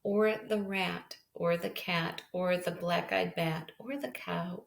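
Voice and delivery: gentle storybook read-aloud; reading to children. Acted. Teacher reading a picture book to her class, gentle storytelling. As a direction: read it to a class of little kids.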